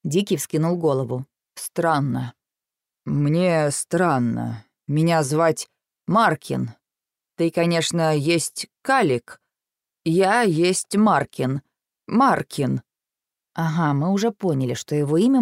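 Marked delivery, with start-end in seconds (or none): 1.6-12.8 slow, halting wild fey voice; halting words of a dazed fey; slow broken speech. Acted. Wild fey speaks slowly, oddly.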